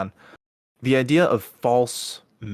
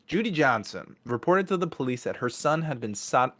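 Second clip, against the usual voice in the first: light, upbeat storytelling lilt; joking tone; 3 semitones higher than usual. Real, not acted. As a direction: tell it like a fun plot twist. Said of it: "I should not be joking".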